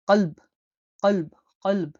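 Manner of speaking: কলব with a hard, deep ক from the throat; deep qalb. Shown as a demonstration. Teacher demonstrating the deep Arabic q in a word, from the throat. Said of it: "গভীরভাবে বলতে হবে".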